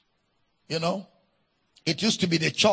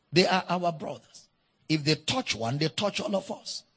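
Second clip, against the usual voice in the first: softer, urgent call to prayer; hushed earnest plea; 3 semitones lower, 7 dB quieter than usual. Acted. Pastor calling the church to pray, hushed. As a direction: lower the voice and plead.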